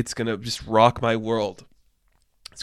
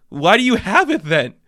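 baffled question; 7 semitones higher, 4 dB louder than usual. Pretend. Imagined onlooker questions.

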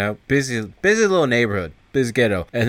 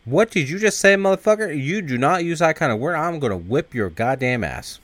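high-pitched outraged mom, easing down; scolding mom; 6 semitones higher than usual. Retold or imitated. Mom scolding little kid for swearing, outraged. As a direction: imitate a mother telling off her kid.

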